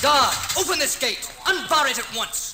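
loud, high royal command; commanding shout. Acted. Prince shouting at the gate guard to open it, commanding. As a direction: bark the order at the guard.

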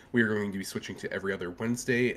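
ordinary talk, nothing marked

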